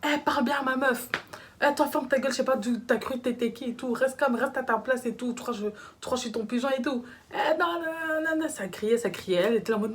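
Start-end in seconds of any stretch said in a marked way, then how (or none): 0.0-5.3 pitched-up mock yelling between the two men; heated argument. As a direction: play the boyfriend snapping back at the caller. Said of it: "Ils sont là en train de s'engueuler".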